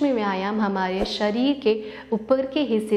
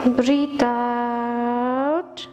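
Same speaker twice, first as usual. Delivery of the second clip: slow drawn-out breath cue; 2 semitones higher, much slower than usual. Shown as a demonstration. Yoga teacher guiding the class's exhale, slow and drawn. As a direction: stretch ब्रीथ आउट long and slow like a long exhale. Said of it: "सांस लेते हुए half circle ब्रीथ इन".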